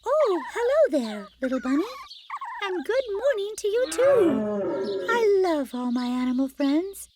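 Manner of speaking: high, bright-hearted princess voice; greeting her animal friends; cheerful Snow White. Acted.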